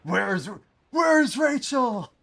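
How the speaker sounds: very high, loud, slow squeal; piercing squeak. Pretend. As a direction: shriek the name slowly. High shouted silly voice.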